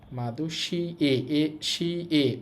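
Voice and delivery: drawn out very slowly, syllable by syllable; slow pronunciation drill. Shown as a demonstration. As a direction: stretch each sound so students hear it. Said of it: "এ হবে উচ্চারণ". (ধীরে ধীরে উচ্চারণ অনুশীলন)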